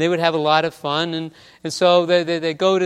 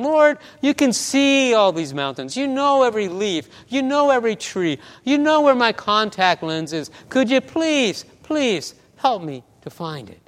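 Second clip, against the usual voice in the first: imploring prayer, higher pitch falling at the end; pleading prayer; 4 semitones higher than usual. Retold or imitated. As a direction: act out a desperate plea to God. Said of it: "she's praying the whole time".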